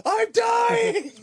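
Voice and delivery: high squealing laugh. Real, not acted. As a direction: crack up while talking. Laughing hard at the joke.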